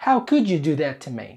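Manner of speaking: fast accusation with a falling tune; angry reproach. Shown as a demonstration. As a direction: demonstrate an indignant, rushed reproach. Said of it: "we usually say it like this".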